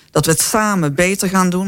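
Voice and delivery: emphasis on the word "samen"; stress on SAMEN. Real, not acted. Panelist explaining shared work with farmers, stress on "samen". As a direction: lean on "samen" to underline it. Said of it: "met nadruk op dat samen".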